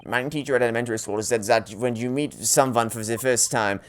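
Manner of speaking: amateur mock German accent; bad German accent. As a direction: attempt a prim German accent, not very convincingly. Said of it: "this is why I didn't want to do a German accent".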